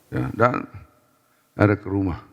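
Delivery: ordinary talk, nothing marked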